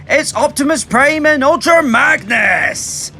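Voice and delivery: excited announcement. Real, not acted. Announcing the figures.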